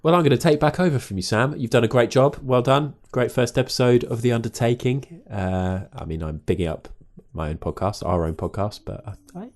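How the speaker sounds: ordinary delivery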